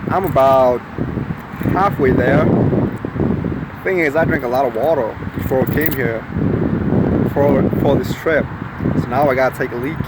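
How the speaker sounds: put-on a home-made Southern accent, not quite landing. Vlogger to his camera, in a shaky put-on Southern accent. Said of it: "keep forgetting the accent".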